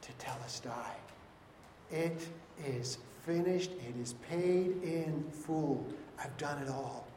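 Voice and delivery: slow, soft, drawn-out last words; hushed, not the loud cry the text names; spent, slow whisper-like finish; quiet, slow finality. Retold or imitated. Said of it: "cries out with a loud voice".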